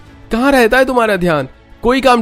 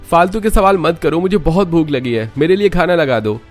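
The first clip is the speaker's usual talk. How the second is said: angry snap; 7 semitones higher, 4 dB louder than usual. Acted. Husband snaps at wife.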